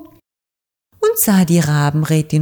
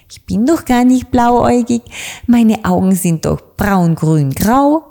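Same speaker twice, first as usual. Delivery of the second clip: put-on bright, higher girl's voice, laughing it off; a carefree little witch shrugging off the scolding; cheerful little witch; 6 semitones higher than usual. Little witch Dorothee answers the raven councillor cheerfully. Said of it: "Doch diese lachte nur und meinte".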